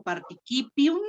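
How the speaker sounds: participium stressed on the CI, par-ti-CI-pi-um. Shown as a demonstration. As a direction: stress the syllable before pi in participium. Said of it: "el acento lo recorro una antes".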